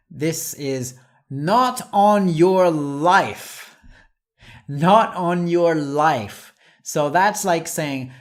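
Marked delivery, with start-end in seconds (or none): 1.3-3.8 slow, loud and emphatic, stress on NOT; forceful refusal. Shown as a demonstration. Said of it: "absolute way of saying no". 4.7-6.5 slow, loud and emphatic, stress on NOT; forceful refusal. Shown as a demonstration. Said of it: "absolute way of saying no".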